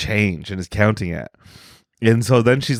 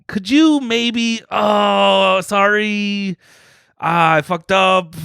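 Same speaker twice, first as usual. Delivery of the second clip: higher, drawn-out hesitant begging; hypothetical polite plea; 8 semitones higher, much slower than usual. Acted. Stranger sheepishly asking a customer for money, acted high plea. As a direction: act out a sheepish, apologetic ask.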